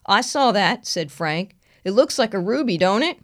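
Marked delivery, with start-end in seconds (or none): 0.1-0.9 country deputy voice. Acted. Frank replies. 1.8-3.2 country deputy voice. Acted. Frank replies.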